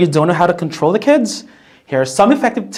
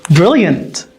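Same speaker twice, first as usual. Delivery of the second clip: upbeat, praising teacher voice; encouraging; 3 semitones higher than usual. Shown as a demonstration. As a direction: cheer the class on warmly. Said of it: "These sorts of statements are going to reinforce".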